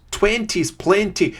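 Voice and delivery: high, loud, slow mock Scottish impression of a sketch; bad Scottish accent. Gamer mimicking a comedy sketch in a bad Scottish accent. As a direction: ham up a Scottish accent, drawing it out. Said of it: "that's an appalling Scottish accent".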